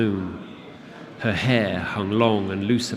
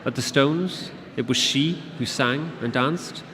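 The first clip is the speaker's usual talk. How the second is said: curious creature; 5 semitones higher than usual. Acted. Creature keeps questioning curiously.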